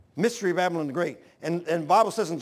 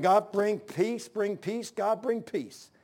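pleading prayer; 3 semitones higher, slower than usual. Retold or imitated. Preacher praying to God for the country, slow plea. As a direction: draw out each plea to God. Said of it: "I'm praying".

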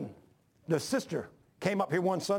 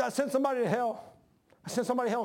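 wife's distress, retold in a higher pitch; a touch of imitated anguish; retold tearful distress; 6 semitones higher, faster than usual. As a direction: lift the pitch, mildly imitating her upset. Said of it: "She was crying".

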